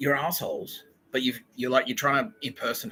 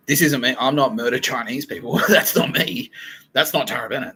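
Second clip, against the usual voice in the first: loud, raised-pitch denial; indignant protest; 4 semitones higher, 8 dB louder than usual. Acted. Tara disowning what is done in her name, indignant protest. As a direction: push back hard, voice up.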